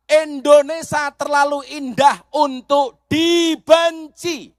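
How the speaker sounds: drawn out and emphatic; slow proclamation. Shown as a demonstration. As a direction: lay it down slowly, word by word. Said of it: "Saya ulangi". (diucapkan pelan dan tegas)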